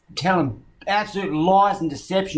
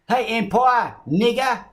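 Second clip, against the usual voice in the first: hollered mock quote, pitched up; mock attacker; 6 semitones higher, slower than usual. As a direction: imitate an attacker calling him out, higher. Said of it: "He said".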